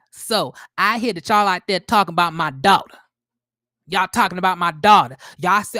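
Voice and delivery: hammed-up mother defending her daughter; put-on Miss Wanda accent. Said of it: "let me try to get this accent together".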